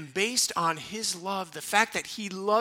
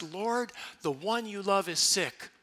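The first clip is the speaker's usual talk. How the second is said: humble prayer; 2 semitones higher than usual. Shown as a demonstration. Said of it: "very humble".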